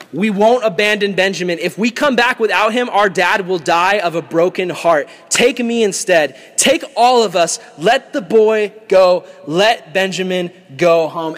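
insistent begging, stretching out the final appeals; impassioned plea. Acted. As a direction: plead earnestly for a brother's life. Judah pleading for his brother.

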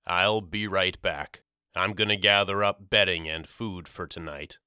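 muffled through a gauze mask. Acted. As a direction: talk through a cloth over the mouth. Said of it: "His voice was muffled beneath the fabric".

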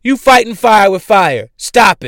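loud, rising angry yell; real angry outburst; angry shout. Real, not acted. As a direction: snap at him, furious. Angry rant at Nick Cannon.

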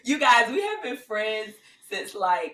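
slow, sappy and mushy. Real, not acted. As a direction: get all mushy and sentimental. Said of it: "like, mushy voice".

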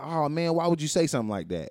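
mock-soothing, waving it away; a light imitation of a kindly dismissal; compassionately dismissive. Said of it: "Compassionately dismissive".

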